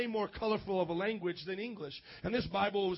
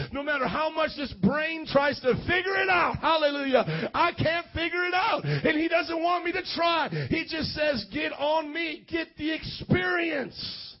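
shouted revival crescendo; full-force preaching; 4 dB louder than usual. Real, not acted. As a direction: preach it with mounting fervour.

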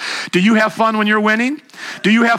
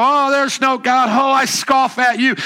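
higher-pitched mock scoff; scoffing mockers; 5 semitones higher than usual. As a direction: imitate doubters jeering at God. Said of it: "They laugh at him now".

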